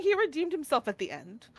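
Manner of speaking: mock smug. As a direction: gloat over his redemption. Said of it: "she's like, going".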